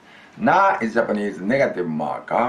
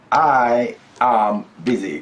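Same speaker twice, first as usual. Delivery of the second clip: prompt for the student; 3 semitones higher, 4 dB louder, slower than usual. Shown as a demonstration. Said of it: "Go ahead, please".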